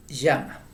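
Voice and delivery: llama with the double L sound, ʝ. Shown as a demonstration. Teacher spelling out llama with double L. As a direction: say llama as ʝama, double L clear. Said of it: "con doble L".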